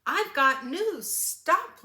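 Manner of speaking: high, loud, breathless hen calling out; excited hen. Acted. The hen calls out news to Blue, high and loud. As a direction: flag the truck down like a frantic hen. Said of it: "Hen came running".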